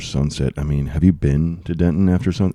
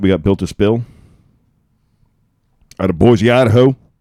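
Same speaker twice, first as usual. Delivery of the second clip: fake Creole accent, higher and louder; 5 semitones higher, 6 dB louder than usual. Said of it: "the Creole accent".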